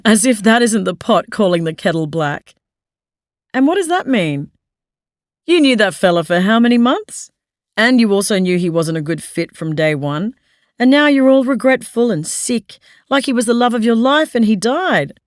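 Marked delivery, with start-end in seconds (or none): 3.5-15.1 louder, higher sarcastic jabs; mocking. A narrator's reading. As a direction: needle her about the fella. Michael mocks her, laughing humorlessly.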